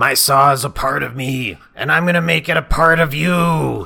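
high, loud voice with "you" drawn out. Retelling a villain's line from a remembered show: Strong Bad voice. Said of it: "You're doing Strong Bad".

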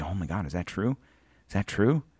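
acted out anxious, alarmed, worried and fretful. Retelling his wife's reaction during a conversation, imitating someone worried. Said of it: "she would get worried".

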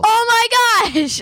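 very high, loud, piercing shriek. Remembering the monkey from a movie in the middle of a story, yelling. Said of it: "I'm sorry for yelling".

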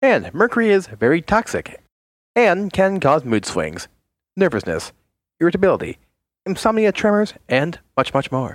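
swooping, salesy infomercial announcer pitch. Presenting the next item, Meddling Darkness, to the others: infomercial-like delivery. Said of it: "You sounded like an infomercial".

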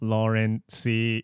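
robotic text-to-speech machine voice. Saying someone's name as thanks, in a robotic text-to-speech voice. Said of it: "I'll say in a robot voice, like the speaking box".

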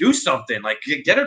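acted-out loud yelling. Describing a scene, the speaker quotes one man yelling at another: retelling a yell. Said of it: "he's yelling at Jesse".

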